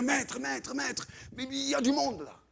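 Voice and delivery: high, flustered calling out; mock panic. Disciples running to Jesus about the crowd, high mock-panicked appeal. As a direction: pester the master in a fluster.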